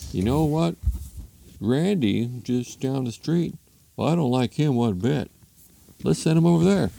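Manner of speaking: put-on husband hatching an idea; scheming husband. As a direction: think up a sly plan as a cartoon husband.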